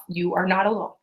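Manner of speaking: scripted sales-call delivery; rushed scripted telemarketer. Shown as a demonstration. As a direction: read it like a canned phone pitch. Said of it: "that sounded like a telemarketer".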